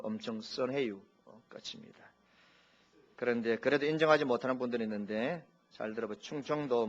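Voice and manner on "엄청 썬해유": Chungcheong dialect. Shown as a demonstration. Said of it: "충청도는".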